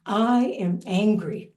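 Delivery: slow, weighty I am angry; heavy anger demo. Shown as a demonstration. Teacher demonstrating clenched anger to meditators. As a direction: plant it heavy and tight. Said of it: "Feel that one".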